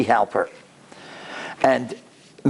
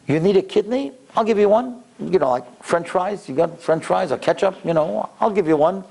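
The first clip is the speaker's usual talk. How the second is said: offhand, higher-pitched casual offer; nonchalant; 4 semitones higher than usual. Retold or imitated. Woman at the table casually offering a kidney, nonchalant. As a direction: toss it off breezily, pitched up. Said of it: "so nonchalant about this".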